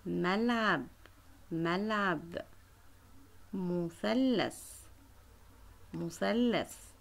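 slow drilling. Shown as a demonstration. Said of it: "teacher drills the word slowly".

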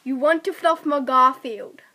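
lightly attempted Cockney accent. Player repeats a sentence for friend to guess, Cockney accent.

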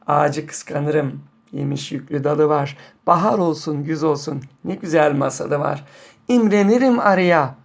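poem recitation. Acted. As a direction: recite the verses gently, line by line. Recites the poem's lines once more.

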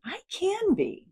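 slow, high affirming repeat; affirmation. Shown as a demonstration. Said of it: "repeat the statement".

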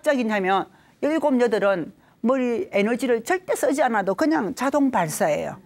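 normal talking voice

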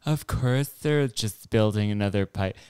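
a light imitation of Greta, a touch of accent; lightly mock her sarcastic climate-activist tone. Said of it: "do Greta's voices".

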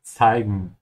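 Zeigen with ts at the start; German zeigen. Shown as a demonstration. Teacher shows learners how Zeigen begins with ts. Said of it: "pronounce the Z sound with a T in the beginning".

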